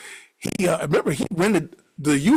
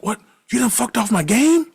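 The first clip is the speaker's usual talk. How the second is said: 1 angry disbelief; 8 semitones higher, 4 dB louder than usual. Retold or imitated. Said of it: "he mad as hell".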